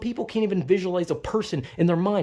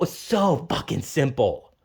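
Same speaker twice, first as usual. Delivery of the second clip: lower, slow, flat-toned "simple"; low sarcastic; 4 semitones lower than usual. Retold or imitated. Mocking family, now slow and low with contempt. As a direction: drop it down and drag it out with contempt. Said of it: "I'm getting very fucking heated".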